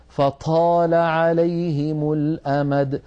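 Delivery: "فطال عليهم الأمد" slowly, air puffing out after the ط; aspirated, breathed ṭa. Shown as a demonstration. Teacher imitating a dialect-influenced error, "فطال" with breathy ط. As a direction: let breath leak from the ط in "فطال". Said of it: "ينطقها مهموسة".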